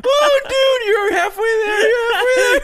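loud, high excited cheer. Real, not acted. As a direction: cheer him on, shouting. Cheering a friend snorting dust.

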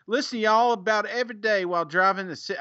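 slipping into a South Georgia twang; unintended Georgia trucker accent; accidental Southern accent. Real, not acted. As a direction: let a Southern accent creep into the reading. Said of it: "I got an accent all of a sudden".

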